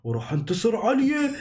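put-on big dragon boasting to the child. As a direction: rumble it out like the strongest dragon alive. Dragon speaks again.

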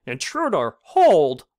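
sudden booming shout of a guard; dread cry. Acted. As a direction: bellow the challenge. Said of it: "a dread voice cried".

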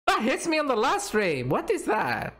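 high, exasperated disbelief; raging gamer. Real, not acted. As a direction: rant at the screen, pitch up. Streamer raging at losing hit.

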